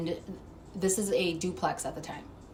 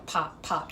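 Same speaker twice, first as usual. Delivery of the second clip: imitated pops; 3 semitones lower than usual. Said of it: "that's how it sounded".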